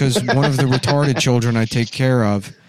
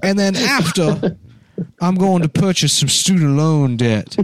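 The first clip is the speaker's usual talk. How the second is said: slow, lilting Southern gentleman; Southern dandy voice. Retold or imitated. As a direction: play the genteel plantation fop. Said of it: "My cool Southern dandy voice".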